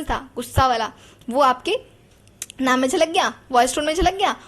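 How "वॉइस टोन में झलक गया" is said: ordinary talk, nothing marked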